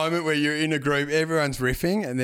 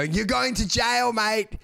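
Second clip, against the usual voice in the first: slow, higher call-out; mock accusing shout; 5 semitones higher, slower than usual. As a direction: shout after a departing driver, playfully. Acts yelling after departing taxi driver.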